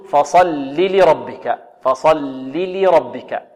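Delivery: "فصل لربك" slow, short i, lam after lam; two distinct lams. Shown as a demonstration. Teacher models the correct reading for students, slow distinct lams. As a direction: articulate both ل in "فصل لربك" slowly. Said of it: "نقول".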